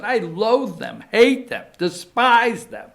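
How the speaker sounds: loud, high, heated loathing; emotional outburst. Real, not acted. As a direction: build to a loud, high-pitched curse. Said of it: "I knew I would get emotional".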